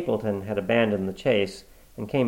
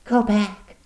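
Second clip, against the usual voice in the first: high, pressing woman's voice; urgent warning; 10 semitones higher than usual. Acted. Woman warning the visitor to leave, urgent. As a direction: push him away with urgency. Miss Stapleton warns Watson.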